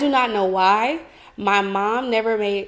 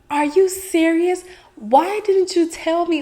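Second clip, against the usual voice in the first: higher, louder mock-mom disbelief; imitating surprised mom; 8 semitones higher, 3 dB louder than usual. Daughter imitating her mom hearing about the first period, surprised and raised. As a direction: play your mom, stunned you kept it secret. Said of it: "she was just like".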